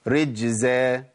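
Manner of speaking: رجزا with a clear voiced z; رجزا بزاي واضحة; correct rijzan. Shown as a demonstration. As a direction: keep the z in رجزا buzzing, not s. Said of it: "تجيب أمثلة".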